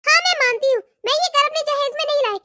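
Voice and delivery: a lightly voiced, sarcastic young wife; mock her words back at her; sarcastic daughter-in-law. Daughter-in-law arguing sarcastically with her sister-in-law.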